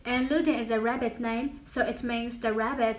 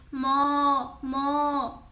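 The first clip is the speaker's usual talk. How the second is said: Chinese cow moo. Shown as a demonstration. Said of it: "we say".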